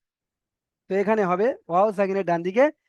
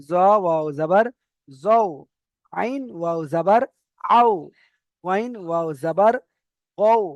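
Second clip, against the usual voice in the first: Quran spelling recital. Shown as a demonstration. Teacher chanting letter drills to students. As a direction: chant each letter and vowel for the class.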